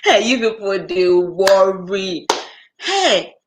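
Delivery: slow, drawn-out weary sigh of words; exasperated. Real, not acted. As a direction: drag out they worry in mock despair. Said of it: "exasperated exclamation".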